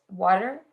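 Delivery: "water" with a D sound for the T. Shown as a demonstration. Explaining American T's to the host, "water" with a D. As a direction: say "water" American-style, T turned to D. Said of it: "the T is more a D".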